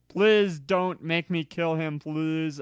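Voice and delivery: begging. Acted. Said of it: "I begged".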